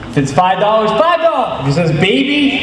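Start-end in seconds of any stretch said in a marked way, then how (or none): 0.9-1.6 higher, called out; read out loud. Shown as a demonstration. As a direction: announce it loud and clear. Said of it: "read it nice and loud".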